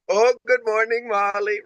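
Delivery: a high, sing-song try at Silke's accent, admittedly bad; imitating Silke's accent. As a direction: chirp the greeting the way Silke says it, accent and all. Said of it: "'Oh,' with the accent".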